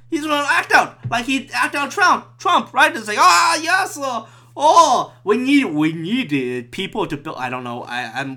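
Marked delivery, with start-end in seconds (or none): 3.2-7.4 put-on Chinese accent. Acting out someone needing builders, accidental Chinese accent. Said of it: "why am I doing the Chinese accent".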